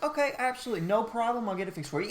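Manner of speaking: high chirpy service voice; customer service voice. Retold or imitated. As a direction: fake cheerful clerk. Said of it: "I was like".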